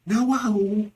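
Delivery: high-pitched astonished exclamation; surprise. Shown as a demonstration. Teacher showing how to react to news, surprised. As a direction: exclaim in shock, drawn out. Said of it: "any of the above surprise, shock, interjections".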